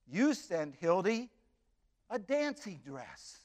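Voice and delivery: tender letter. Retold or imitated. Hildy's tender thank-you letter read.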